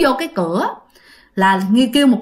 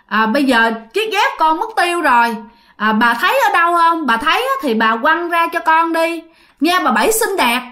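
mildly raised voice calling to the dead neighbour; loud calling; 2 semitones higher than usual. Retold or imitated. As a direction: call out a bit louder, cocky. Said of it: "mà nó nói lớn nha". (gọi to, hơi lên giọng, ra vẻ anh hùng)

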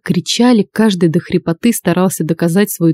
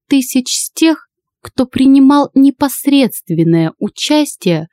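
high, slow, icy businesslike; stern old lady; 4 semitones higher than usual. Acted. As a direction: state the terms coldly. Old lady sets terms.

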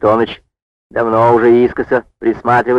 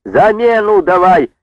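chorus demand; 8 semitones higher than usual. A narrator's reading. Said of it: "жонки в один голос".

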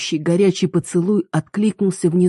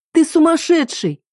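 high, pained cry; a girl calling her lover crazy; accusing scream; 12 semitones higher than usual. Acted. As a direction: fling it at him. Heroine screams at him.

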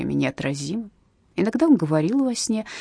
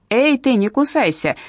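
loud, higher barked warning; 6 semitones higher, 5 dB louder than usual. Acted. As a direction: bark at the prisoner. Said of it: "рявкнула одна из них".

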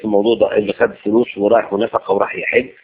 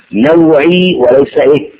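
drawn-out call; 5 dB louder, much slower than usual. Real, not acted. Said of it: "preacher drilling the congregation".

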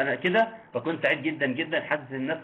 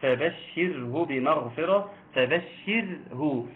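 slow recitation; slower than usual. Shown as a demonstration. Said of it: "حكم الراء هنا إيه؟".

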